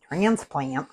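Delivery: "transplant" said slowly with a flat Northern Ohio a; Northern Ohio "transplant", drawn out, with broad flat vowels; Northern Ohio accent. Shown as a demonstration. Cook catching her own Northern Ohio "transplant", said slowly. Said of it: "I sound like I'm from Northern Ohio saying it that way".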